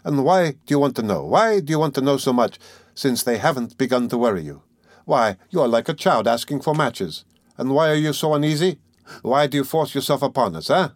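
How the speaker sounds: animated sly questioning, ending in a chuckle; lightly voiced Porfiry, teasing. Examining lawyer teasing his uneasy suspect, sly. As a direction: needle him with good-humored questions.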